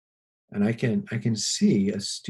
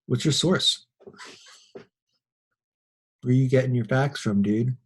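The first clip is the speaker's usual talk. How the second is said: high, loud and slow, demanding an answer; challenging girl; 4 semitones higher, 6 dB louder, slower than usual. Retold or imitated. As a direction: call him out in front of the class.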